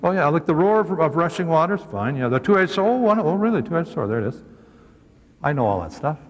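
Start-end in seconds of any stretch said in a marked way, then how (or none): 0.0-1.8 mock know-it-all. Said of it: "you can't read that and say". 2.2-4.1 mock know-it-all. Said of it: "you can't read that and say".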